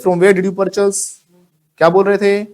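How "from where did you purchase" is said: slow, spelled-out classroom model; slow teacher demo of the old order; slow model sentence. Shown as a demonstration. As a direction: drill it word by word, slowly. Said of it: "पहले हम क्या बोल रहे थे".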